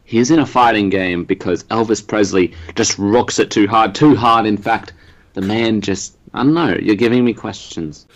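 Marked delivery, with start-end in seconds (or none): 0.0-6.2 low, drawling rock-star impression; a rock-and-roll singer. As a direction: croon it like a Southern rock legend. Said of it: "sounds like an Elvis Presley impersonation".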